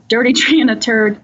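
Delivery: cracking up mid-punchline; laughing. Retold or imitated. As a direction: laugh through the words. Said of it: "the interviewee says".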